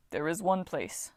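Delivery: slow, hesitant Titan; slow, thoughtful giant. A narrator's reading. Voices Bob.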